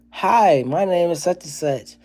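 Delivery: put-on bright high child voice; mild happy child greeting; little girl greeting. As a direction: chirp it like a happy little kid. Voicing his daughter greeting kids.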